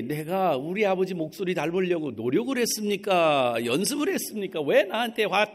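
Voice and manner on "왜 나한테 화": normal talking voice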